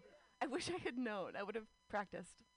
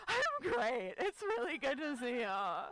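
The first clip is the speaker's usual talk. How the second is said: high, loud chirp then a slower finish; overbright nervous reply; 3 semitones higher, 4 dB louder, slower than usual. Retold or imitated. Nervous woman faking calm to her crush, high and chirpy. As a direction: fake breezy cheer, much higher. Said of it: "I'm like".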